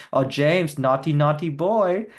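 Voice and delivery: slow, lightly mocking Tommy Wiseau tut-tut; imitating Tommy. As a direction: drag out "naughty, naughty boy" in a light Tommy voice. Retelling Tommy teasing about James.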